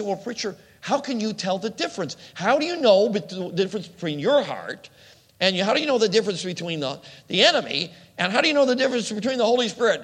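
high, pressing questions from the pews; quizzical churchgoer. Retold or imitated. Churchgoer asks preacher how to tell, pressing and high. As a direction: play a puzzled listener pushing the preacher. Congregant asking preacher, rising.

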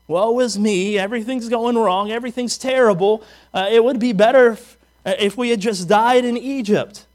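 mock self-pitying complaint; Eeyore. Preacher mimics complainers wishing they died in Egypt, mild Eeyore woe. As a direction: wail lightly about how bad it all is. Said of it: "We get the Eeyore effect".

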